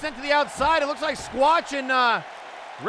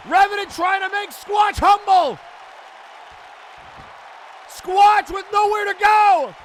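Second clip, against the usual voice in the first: excited call; 6 semitones higher, 4 dB louder than usual. Real, not acted. Camel clutch locked in.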